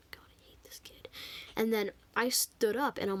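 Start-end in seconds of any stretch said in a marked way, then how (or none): 0.1-1.1 barely audible imitation of a teacher's whisper; whisper under breath. Fed-up teacher to herself about a student, whispered. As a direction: hush it right down, no voice. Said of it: "She actually whispered under her breath".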